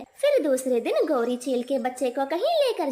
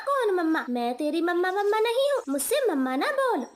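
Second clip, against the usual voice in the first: higher, scolding snap at the chick; irritated Gori kavi; 5 semitones higher than usual. Acted. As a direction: brush off the chick's mama. (चिढ़ी हुई गोरी कवि)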